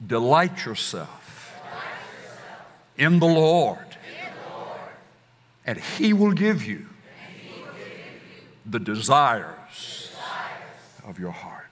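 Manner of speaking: final call-and-response peak, then a hushed close; climactic emphatic recitation. Shown as a demonstration. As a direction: build to a preaching peak, then fall away on heart. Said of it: "One more time".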